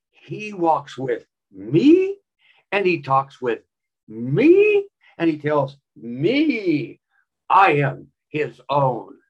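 slow, drawn-out mocking recital of the hymn; mocking sing-song. Professor mocking the evangelicals' hymn in class, slow and sneering. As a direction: stretch each line out to make fun of it. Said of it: "He was mocking the song".

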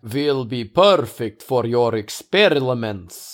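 slow, hammed-up vampire count accent; Bela Lugosi voice. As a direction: drag it out like an old horror count. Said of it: "in a Bela Lugosi voice".

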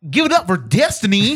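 loud, high booming stage announcer; fighting game announcer. Pretend. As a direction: hype up the crowd like a ring announcer. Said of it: "your announcer voice".

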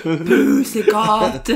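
slow, drawn-out cooing at a cat, through a laugh; mock cat call. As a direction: stretch the words like calling a pet. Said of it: "starts going".

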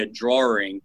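drawing said as "drawring"; intrusive R. Retold or imitated. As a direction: slip an R into the middle of drawing. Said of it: "she'll slip that R in there".

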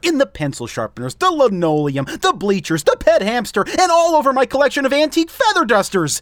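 low, flat janitor voice; deadpan grumbling school janitor; flat weary teacher menace. Acted. Janitor testifies in character voice.

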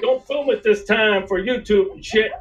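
lightly voiced blustery southern cartoon rooster. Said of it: "And then".

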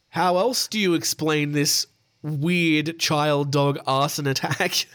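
slow, drawn-out courtroom argument; mock courtroom lawyer. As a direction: lightly play a lawyer pleading to the judge. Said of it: "Your Honor".

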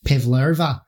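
PAVLOVA with an Australian long middle vowel; Australian accent. Shown as a demonstration. Showing the one word she can do, Australian accent. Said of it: "I can do that".

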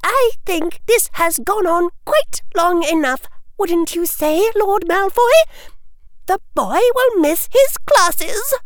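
sugary high official lady; prissy lady voice. A narrator's reading. Woman in pink makeup voiced.

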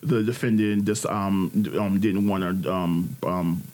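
imitating Gayle. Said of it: "And she's like".

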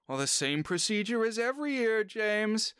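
a hint of a prim elderly hostess; Miss Sophie voice. Old lady reminding her butler of the yearly ritual, lightly voiced.

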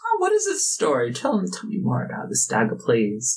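gushing curiosity; an excited noble; eager. Acted. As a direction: beg to hear the story.

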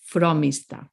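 "fromista" stressed FRO-mis-ta. Shown as a demonstration. Spanish speaker explaining accent marks, "fromista" stressed on the O. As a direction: put the emphasis on the O of "fromista". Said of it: "the emphasis goes on the O".

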